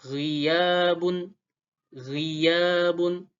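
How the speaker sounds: ghiyabun with a throaty gh; Arabic ghain. Shown as a demonstration. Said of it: "Lalu huruf ghain".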